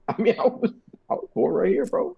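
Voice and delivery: mock being offended, dripping sarcasm; sarcastic. Real, not acted. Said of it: "It's sarcasm".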